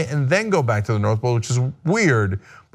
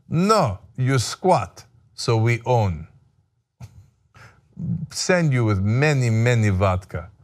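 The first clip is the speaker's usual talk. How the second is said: put-on Russian accent; 2 semitones lower, slower than usual. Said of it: "pardon me for my Russian accent".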